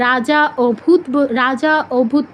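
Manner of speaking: "রাজা অভূত" with the silent vowel spoken aloud; wrong split reading. Shown as a demonstration. Teacher showing a forbidden reading, অভূত with its vowel sounded. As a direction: pronounce the opening vowel of "অভূত" separately. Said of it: "বলা যাবে না".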